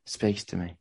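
lightly voiced Australian pitch; Australian accent. Pitching a painting at a show, in a mixed Australian accent. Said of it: "a phenomenal Australian accent".

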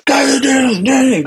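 drawn-out high mock yell; imitating dad yelling like a boot camp instructor; slow, strained high holler, played for effect; imitated military yell. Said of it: "he's yelling at the top of his lungs".

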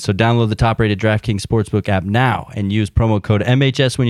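upbeat sponsor ad read. Acted. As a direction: sell it like a radio spot. Host reads sponsor ad.

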